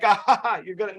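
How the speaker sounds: wrong way: a snickering joke at their age; mocking laugh. Shown as a demonstration. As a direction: laugh at the customer, the way not to do it. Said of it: "I don't joke with them like".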